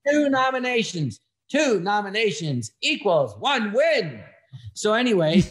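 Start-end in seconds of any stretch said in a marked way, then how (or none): 0.1-4.2 slow, higher, mock-grand boast; mock pride. Joking to the host about Emmy nominations, slow mock-grand boast. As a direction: spell it out like a proud joke.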